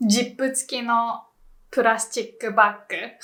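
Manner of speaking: "plastic bag" as purasuchikku baggu; Japanese pronunciation. Shown as a demonstration. Teacher guessing a long Japanese name, syllable by syllable. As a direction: say "zip" as jippu and "plastic bag" with Japanese vowels. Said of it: "what the actual name is".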